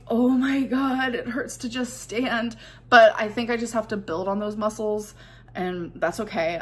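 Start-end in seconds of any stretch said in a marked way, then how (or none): 0.1-2.6 drawn-out, higher "oh my God"; slow, raised-pitch complaint about aching; mock exasperated groaning. Woman recounting painful days on her feet, mildly exasperated. Quotes own pained reaction.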